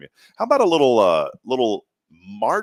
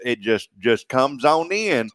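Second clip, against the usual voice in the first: country storytelling with stretched words; hammed-up country accent. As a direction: spin a country yarn, drawing out words. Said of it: "I threw in a little Fargo with country".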